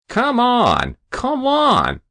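very high, loud urging; impatient lout. A narrator's reading. Hero hurrying the great men, impatiently. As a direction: hurry them up, pitched high.

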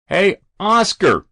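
slow, high, loud call; winded yell. Acted. Winded fireman yelling up at the boy, slow loud call. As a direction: bellow up at the roof. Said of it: "the winded fireman yelled".

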